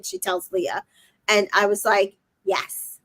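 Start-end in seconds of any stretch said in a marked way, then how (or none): 2.4-3.0 whispered egging on. Retold or imitated. Own whispered encouragement.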